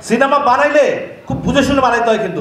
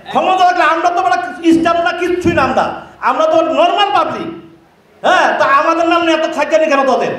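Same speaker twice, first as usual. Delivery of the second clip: real anger, raised voice at his critics; heated rant; 4 semitones higher than usual. Real, not acted. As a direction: tear into the YouTubers, fired up. Heated rant at rival YouTubers.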